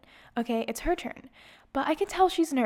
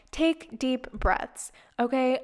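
self-calming; slower than usual. Retold or imitated. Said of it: "I'm trying to tell myself".

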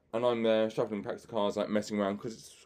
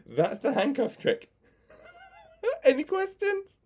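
laughing; slower than usual. Real, not acted. Wraps up the story laughing.

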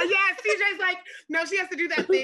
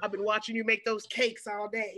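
reenacted husband line. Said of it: "Stop reenacting it".

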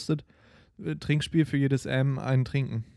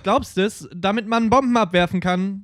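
high, loud eager explaining; excited; 7 semitones higher, 6 dB louder than usual. Real, not acted. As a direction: pitch it up, get carried away. Eagerly explaining joke origin.

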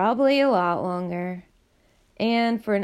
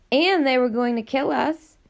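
higher and sharper, cutting back; harsh retort; 4 semitones higher, 4 dB louder than usual. Acted. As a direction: snap it back hard at him. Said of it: "Nina countered harshly".

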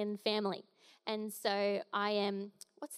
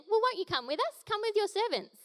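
higher, louder pleading voice; pleading prophets; 9 semitones higher, 4 dB louder than usual. A narrator's reading. Prophets asking Elisha to come, higher pleading. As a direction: beg Elisha to come along. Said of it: "one of them said".

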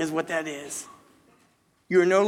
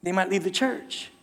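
softer, hushed self-doubt; muttered to yourself, half under the breath; anxious aside, quietly voiced; worried inner thought; 6 dB quieter than usual. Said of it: "And you're like".

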